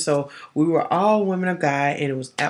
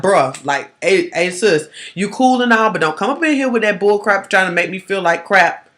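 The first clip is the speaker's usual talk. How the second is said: firm brush-off; 4 semitones higher, 6 dB louder than usual. Shown as a demonstration. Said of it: "dudes, you're gonna have to put your feeling like".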